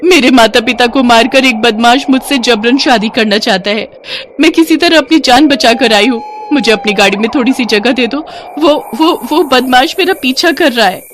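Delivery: acted panic, stammering as she begs; panicked bride. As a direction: plead for help like a hunted bride. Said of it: "घबराई हुई वहां आती है".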